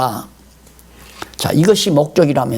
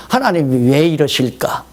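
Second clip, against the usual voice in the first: humble wondering. Retold or imitated. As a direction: ponder humbly about God's plan. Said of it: "중심에서". (겸손하게 묻는 말투)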